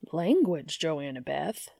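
mock-shocked scolding; scandalized chiding. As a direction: clutch your pearls and scold. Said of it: "Dean chides in a scandalized voice".

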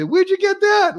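high-pitched, amazed mock question; incredulous question. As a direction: act out someone astonished, voice leaping up. Acting out people's amazed question.

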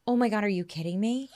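laughing through the question; laughing "are you kidding me"; laughing disbelief. Retold or imitated. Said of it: "That's what I said".

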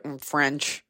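bored sigh of a reply; eye-roll answer. Retold or imitated. Language student asked about school French, with an eye roll. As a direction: roll your eyes as you say it. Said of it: "with an eye roll".

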